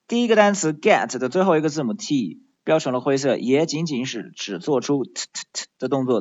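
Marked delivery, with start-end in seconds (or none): 5.0-5.7 t as a bare tongue tap, no vowel; unvoiced t. Shown as a demonstration. Teacher showing the greyed-out letter T, silent t. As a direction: only make the motion of t, almost silent. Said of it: "但是不发出音来".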